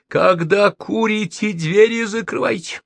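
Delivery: furious landlady yells about the smoking; shouting. A narrator's reading. Furious screaming at smoking guests, American accent. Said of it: "принялась кричать".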